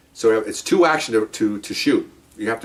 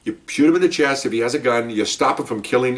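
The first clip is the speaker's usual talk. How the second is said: firm, deliberate instruction with stressed key words; retold lecture. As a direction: spell it out to a rookie. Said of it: "I'm, I'm, I'm lecturing him".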